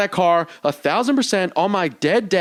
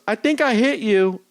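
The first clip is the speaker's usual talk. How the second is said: slow, higher imitation of the lady; retold call from car; 4 semitones higher than usual. Woman driver leans from her window, imitated slow high call. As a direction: call it out slowly, lightly mimicking her. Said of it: "she was yelling it from her car".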